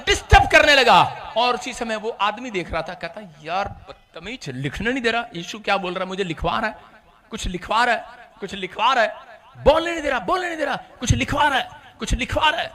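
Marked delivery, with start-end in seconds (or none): 3.4-12.7 low, hushed irritated complaint; annoyed muttering. Retold or imitated. A man muttering at the devil disturbing him, low and irritated. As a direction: grumble quietly at the pest.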